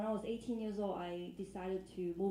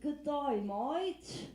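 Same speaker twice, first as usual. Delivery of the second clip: lightly mocked Aussie greeting; Australian accent; 4 semitones higher, 4 dB louder, much slower than usual. Australian man greeting a newcomer, mock Aussie accent. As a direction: put on a broad Australian greeting, a bit louder.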